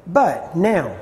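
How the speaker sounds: BUT hit firmly, then a separate NOW; stress on BUT. Shown as a demonstration. Teacher showing how to study a verse aloud, stress on "But". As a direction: punch the word "But" and set it apart. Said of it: "I would read it like this".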